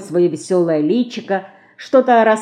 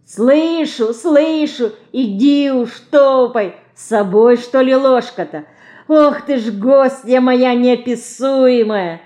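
raised, higher voice, fondly scolding; touched; 6 semitones higher, 4 dB louder than usual. A narrator's reading. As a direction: call back affectionately to a little child. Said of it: "растроганно откликается с террасы Лина".

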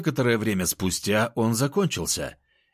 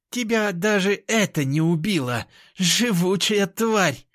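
snarling growl; 10 semitones higher than usual. A narrator's reading. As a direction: spit it out in rage. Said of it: "прорычала беловолосая".

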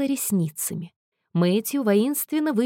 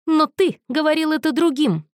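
ледяным тоном; 8 semitones higher, 4 dB louder than usual. A narrator's reading. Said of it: "ледяным тоном перебил его Мэтью".

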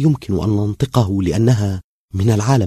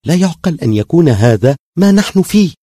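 high, louder distressed plea; tearful; 9 semitones higher, 6 dB louder than usual. A narrator's reading. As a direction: protest in tearful distress, pitch climbing. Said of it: "قالت وقد دمعت عيناها". (باحتجاج دامع)

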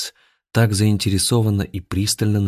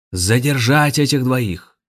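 higher, louder, slow command; loud order; 6 semitones higher, 4 dB louder, slower than usual. Acted. Grandmaster orders the guards to seize them, loud command. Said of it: "громко приказал гроссмейстер".

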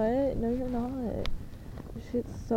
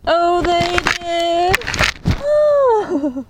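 much higher and louder, squealed fake surprise; sarcastic mock shock; 7 semitones higher, 8 dB louder, much slower than usual. Mocking cults with ranches, high squealing fake astonishment. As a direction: gasp it as if this is news to you. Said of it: "I'm shocked".

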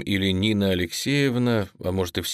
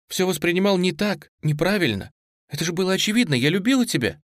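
tearful plea; 8 semitones higher, faster than usual. Acted. Nastya confessing through tears.

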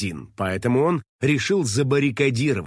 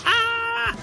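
very high frightened scream; scream of fright. Acted. Finik sees the robot silhouette, very high scream. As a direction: shriek in terror. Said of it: "завопил он от испуга".

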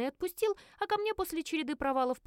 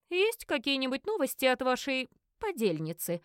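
stern question; 3 semitones higher than usual. Acted. Investigator questions the two witches, stern. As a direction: press them coldly. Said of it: "строго спросил Кьяри".

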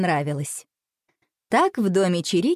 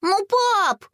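exclaiming; 13 semitones higher than usual. A narrator's reading. Boy protesting to dad, high exclaiming plea. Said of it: "воскликнул Боря".

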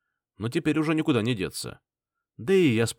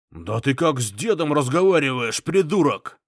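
loud outraged retort; indignant shout; 4 semitones higher, 5 dB louder than usual. A narrator's reading. Someone at the table outraged at the spectator. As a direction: tell him off for rudeness. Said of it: "возмутился кто-то за столом".

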